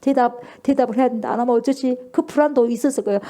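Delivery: ordinary delivery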